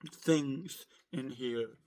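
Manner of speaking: slow, voice failing mid-phrase; voice giving out. Real, not acted. Sick vlogger apologizing to viewers, voice giving out. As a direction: let the voice drop out on the word. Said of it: "that's why my voice went out".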